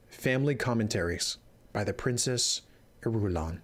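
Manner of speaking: story narration. Acted. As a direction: read the epigraph with gravity. Reads the epigraph.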